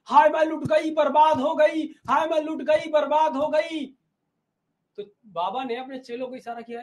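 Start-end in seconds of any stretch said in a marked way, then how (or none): 0.1-3.9 mock wailing cry. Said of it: "अब बुढ़िया लगी चिल्लाने".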